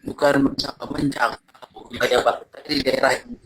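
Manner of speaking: breaking up on a call; choppy dropping audio; bad connection. Real, not acted. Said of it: "suaranya putus-putus tetap".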